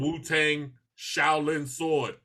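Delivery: slow, drawn-out imitation of a rapper. Viewer mocking the show's dragging dialogue, slow imitation. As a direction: stretch the words out, lightly mocking. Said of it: "He is talking extremely slow".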